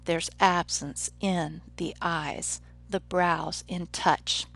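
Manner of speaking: slow iambic beat, stress on AB, EYES, BROWS and TOUCH; iambic demonstration. Shown as a demonstration. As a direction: measure out "absence in the eyes" slowly, beat by beat. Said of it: "that is known as an iamb".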